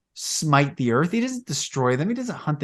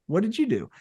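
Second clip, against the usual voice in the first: soft, higher gentle question; gentle not angry; 7 semitones higher, 3 dB quieter, faster than usual. Retold or imitated. God gently asking the woman, tender soft question. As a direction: ask it kindly, no anger. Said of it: "not angry".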